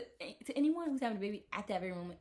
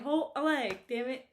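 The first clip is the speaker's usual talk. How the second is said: mock angry demand; 6 semitones higher, 6 dB louder than usual. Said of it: "And, like".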